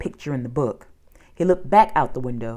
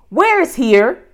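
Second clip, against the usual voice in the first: loud, high call from above; 10 semitones higher, 7 dB louder, slower than usual. A narrator's reading. Annie calling down to the creature, loud call. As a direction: call out the question. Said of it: "Annie called down".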